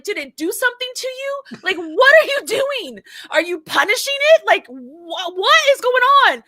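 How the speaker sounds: high, loud mock-exasperated demand. Retold exasperation at husband's loud typing.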